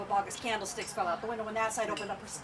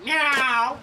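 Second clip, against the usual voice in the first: loud meow with rising questioning tune; witch speaking cat; 3 semitones higher, 8 dB louder than usual. Acted. Witch asking the cat in its language, loud meow. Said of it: "so she could speak cat".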